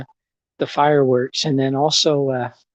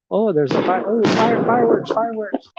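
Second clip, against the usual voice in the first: excited; 7 semitones higher than usual. Real, not acted. Sudden fireworks spotted, excited.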